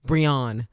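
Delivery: Brion, the husband's slightly-off reading of the name; imitating husband's pronunciation. Wife mimicking how her husband mangles her surname, Brion lightly imitated. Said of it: "He says, like, a".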